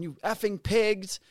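high, drawn-out mock yell; retold yell. Dog owner insulting the police, retold yell. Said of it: "she's yelling".

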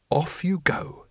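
whispered encouragement. A narrator's reading. Teacher nudging his pupil toward the stall, whispered. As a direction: send him off in a hush.

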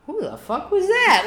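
high, loud, slow disbelief; hammed-up startled outburst; shocked. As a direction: exclaim as if startled by your own voice. Retells shock at own voice.

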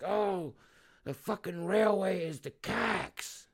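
slow mocking pitch-up of a bad opener; mock wrong approach. How not to open with locals, slow mocking voice. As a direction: ham up the wrong way to start.

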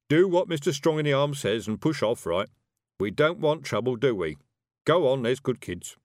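uneasy wizard trying to sound in charge; nervous. Acted. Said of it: "said Brian nervously".

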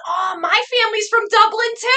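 high-pitched mimicked Boston woman; gushing Boston accent. Woman on a date claiming Dublin family, gushing Boston accent. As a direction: gush in a mock Boston accent. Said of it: "then she goes".

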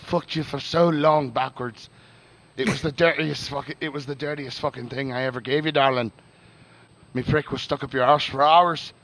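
James Joyce's letter in a put-on accent; Southern-style accent. Reading Joyce's letter to Nora, put-on Southern-style accent. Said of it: "you can just do the Southern".

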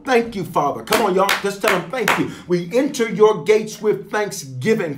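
fervent spoken prayer to God; earnest congregational prayer voice; leading prayer. Real, not acted. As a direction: lead the church in thanksgiving prayer. Pastor leads congregation in prayer.

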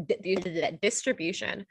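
tripping on the syllable di; repeated stuttered starts; stumbling over words. Real, not acted. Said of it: "I have a lisp".

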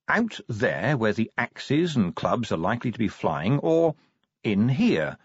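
lightly voiced corporal making his case; persuasive corporal. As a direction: coax the sergeant, nudging for agreement. Voices the corporal's unsaid argument.

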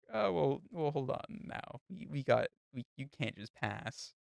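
mock teacher backpedalling. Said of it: "it's like".

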